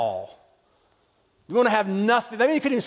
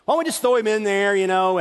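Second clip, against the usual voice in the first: hesitant Reuben; 3 semitones lower than usual. Retold or imitated. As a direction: talk the brothers down gently. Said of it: "he was like".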